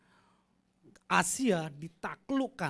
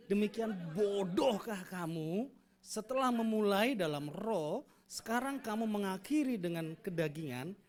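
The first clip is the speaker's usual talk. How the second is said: mildly angry scolding intonation; angry reading. Shown as a demonstration. Congregation told to read the verse angrily, mild scolding tone. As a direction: read it like a furious letter writer, understated. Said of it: "Semua, semua intonasi yang marah".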